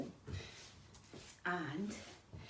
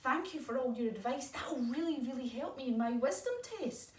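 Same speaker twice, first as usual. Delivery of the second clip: a hint of a higher little owl voice; lightly voiced grateful owlet; 5 semitones higher than usual. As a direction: thank the spider sweetly as the owlet. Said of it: "And Tallulah says".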